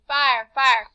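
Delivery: understated shout of alarm; mild shout. Acted. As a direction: call out a warning, only half-shouted. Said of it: "Papa was shaking me and shouting".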